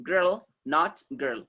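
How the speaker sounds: put-on "Girl" with clear R, slow; slow contrast, R in "Girl" sounded; correct girl, slowly. Shown as a demonstration. Teacher to students: slow "Girl" with the R sounded. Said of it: "R will not be silent".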